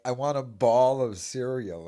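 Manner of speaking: "ball" said where bowl belongs; mock the slip, open vowel in "ball" for bowl. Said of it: "I'm sure he doesn't say".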